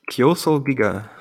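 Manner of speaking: "Kyoso Giga", plainly sounded out; corrected pronunciation. Shown as a demonstration. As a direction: say "Kyoso Giga" with "Kyo" run into one syllable. Corrects the name when asked.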